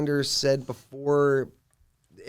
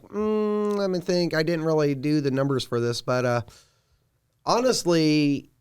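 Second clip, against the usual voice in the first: pondering guide Lander; 4 semitones higher than usual. Acted. Guide weighing which way to go, hesitant.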